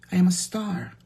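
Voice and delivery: whispered proud claim; whispered boast. Acted. To her live viewers, a whispered boast of stardom. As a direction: let them in on the secret.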